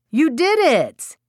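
high, drawn-out mother's cheer; excited praise. A narrator's reading. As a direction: celebrate a toddler's big success. Mother cheers toddler's potty success.

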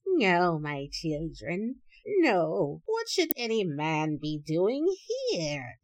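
lightly voiced trembling old woman; a hint of a frail grandmother, pleading. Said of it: "answered in a trembling voice".

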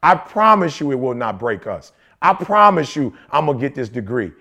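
low, earnest vow, almost hushed. Retold or imitated. Husband quoting his promise to his sick wife, low and earnest. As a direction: promise your partner, low and sure. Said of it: "I'm like".

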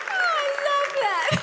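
high and slow, still laughing. Real, not acted. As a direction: get it out through the laughter. Pastor laughing at story.

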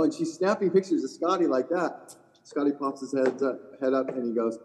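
normal talking voice

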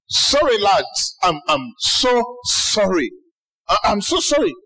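lightly voiced over-apologetic Jesus; mock apology. Jesus to the disciples after sleeping, mildly hammed-up apology. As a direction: drag out "so sorry" in light parody of contrition. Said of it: "you'd expect that Jesus' next response".

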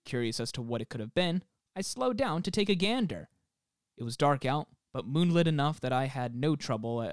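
measured reading of an eerie account; deliberate storyteller delivery; story narration. Acted. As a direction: read it like a campfire tale, lightly dramatic. Reads out a listener's account.

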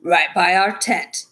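slow, mildly insistent answer; a touch of stubborn insistence. A narrator's reading. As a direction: insist on it, taking your time. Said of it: "the driver insisted".

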